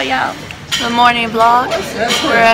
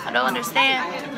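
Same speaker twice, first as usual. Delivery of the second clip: losing voice; 5 dB quieter than usual. Real, not acted. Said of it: "I'm losing my voice".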